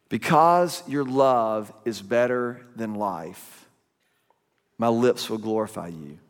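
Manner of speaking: psalm reading. Acted. First reading of the verse.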